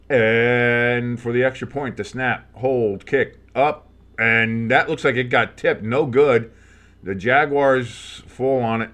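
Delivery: lightly voiced broadcaster recap; walk through the kick like a TV announcer; play-by-play call. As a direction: fan recapping the Bills drive, announcer style. Calls the extra point live.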